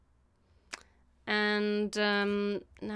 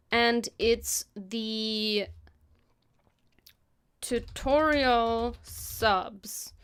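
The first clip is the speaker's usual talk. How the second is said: slow whispered dictation while typing; much slower than usual. Real, not acted. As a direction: spell the name out slowly under your breath.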